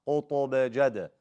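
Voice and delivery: قطب جد with a small echo after b and d; bouncing qalqala. Shown as a demonstration. Teacher models bouncing letters, qalqala on قطب جد. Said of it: "you do, you bounce".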